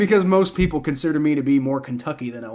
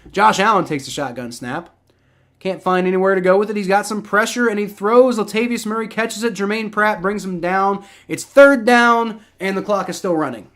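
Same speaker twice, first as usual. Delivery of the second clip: quick, higher-pitched running commentary; live play-by-play; 4 semitones higher than usual. Real, not acted. Streamer calls a Bills play, live play-by-play. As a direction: call the action as it unfolds.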